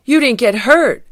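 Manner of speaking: high, loud, happy exclamation. Acted. Fieldgar finds Garfield unhurt, happy exclamation. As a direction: exclaim with joyful relief. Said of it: "said Fieldgar happily".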